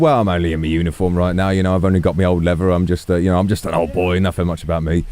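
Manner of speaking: put-on a flustered, modest old police chief; lightly voiced shy old man; bashful old chief.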